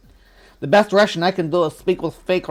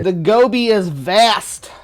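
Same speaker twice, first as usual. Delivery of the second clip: dramatic; 4 semitones higher, 5 dB louder, slower than usual. Acted. Dramatic remark on the desert.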